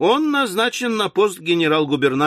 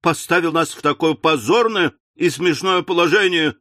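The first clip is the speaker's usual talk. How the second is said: wailing. Acted. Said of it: "возопила миссис Напкинс".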